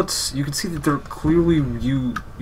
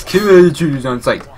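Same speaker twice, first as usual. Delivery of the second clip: higher, louder guard bark; 4 semitones higher, 5 dB louder than usual. Retold or imitated. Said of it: "listen to this guy go".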